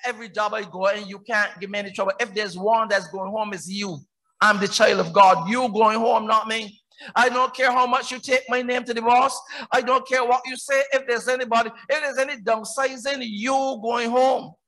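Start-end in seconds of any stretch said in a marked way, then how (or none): 4.4-14.5 mildly defiant, insistent declaration; defiant attitude. Acted. Believer telling troublemakers at work who is going home, defiant. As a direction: stand your ground with a touch of defiance. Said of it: "Y'all have to adopt that attitude".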